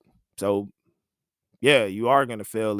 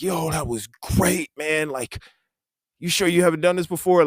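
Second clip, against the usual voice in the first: lightly voiced producer; 5 semitones higher, 4 dB louder than usual. Producer praising after intro.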